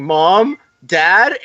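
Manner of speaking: imitated calling out. Voicing Peter calling for parents.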